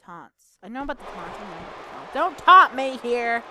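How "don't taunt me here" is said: indignant warning. Real, not acted. Reacting to opponent's taunt.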